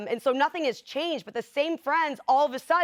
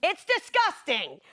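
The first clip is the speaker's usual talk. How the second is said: acted disgust; 5 semitones higher, slower than usual. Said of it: "And scene".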